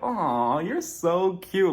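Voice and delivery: slow, tender and gushing; fond aw. Retold or imitated. Recapper gushing over Sergio's wish, slow tender coo. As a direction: coo it slowly like at a puppy. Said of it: "And I'm like".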